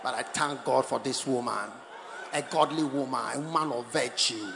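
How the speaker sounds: low tribute building to a shout; deep-voiced crescendo of mock praise; mock devoted husband.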